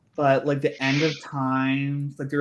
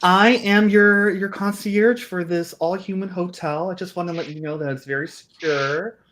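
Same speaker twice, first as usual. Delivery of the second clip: higher-pitched, welcoming concierge voice; ghost concierge; 5 semitones higher, 3 dB louder than usual. Acted. Ghost concierge greeting hotel guests, lightly put-on high voice. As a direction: announce yourself grandly, starting loud and high, then easing down.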